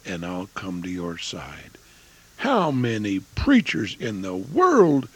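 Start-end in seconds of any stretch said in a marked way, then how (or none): 0.0-1.7 1 hushed promise. Retold or imitated. Gentle promise to desperate caller.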